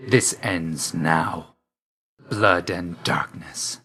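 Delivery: slow, weighty pronouncement; ominous. Acted. Death's agent declares the fight over, slow and ominous. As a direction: draw out each word like a sentence of doom.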